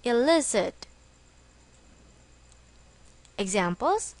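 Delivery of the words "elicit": "illicit" stressed on the middle syllable, LIS; stress on second syllable. Shown as a demonstration. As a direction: say "illicit" as a model word, punching LIS. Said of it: "with the stress on the second syllable".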